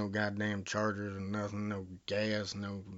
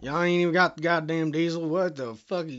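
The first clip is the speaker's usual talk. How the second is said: raised-voice, exasperated swearing; outraged ranting; 4 semitones higher, 7 dB louder than usual. Acted. Caller told there is only unleaded, outraged ranting. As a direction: rant in disbelief at the clerk.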